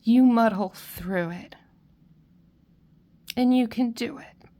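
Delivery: fighting tears to get the words out; tearful. Real, not acted. Reader to a grieving group, tearful and trying to stay steady. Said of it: "you're making me cry".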